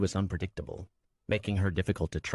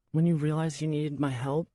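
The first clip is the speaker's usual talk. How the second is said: somber; 9 semitones higher, 3 dB louder than usual. A narrator's reading. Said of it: "she said, somber".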